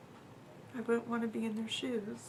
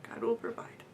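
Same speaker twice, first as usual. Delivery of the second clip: repeats God will provide in an unvoiced whisper; whispered prayer. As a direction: breathe it to yourself like a prayer. And I just thought.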